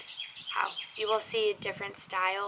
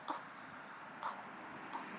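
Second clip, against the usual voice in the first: sarcastic; 14 dB quieter, much faster than usual. Pretend. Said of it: "me sarcastically".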